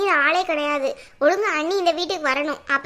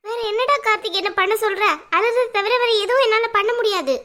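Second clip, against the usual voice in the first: higher-pitched, helpless tearful wail; tearful complaint; 4 semitones higher than usual. Acted. Mother tells son she can only cry, tearful. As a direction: complain to your son through mild crying. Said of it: "ஏம்மா அப்படி அழுறீங்க?".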